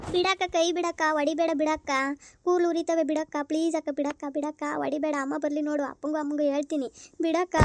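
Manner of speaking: acted whimpering plea to let go; tearful pleading. Younger sister begs elder to stop hitting her, tearful pleading. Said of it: "ಒಳ್ಳೆ ಅಳು".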